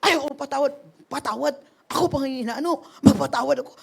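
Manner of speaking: mildly indignant retold protest; angry refusal. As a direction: replay a stubborn refusal to forgive. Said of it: "Kasi galit ka eh".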